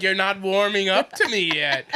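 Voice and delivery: a hint of a creepy dancer, half laughing; mild retelling of her line; lightly voiced dancer. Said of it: "She said it like a wicked witch".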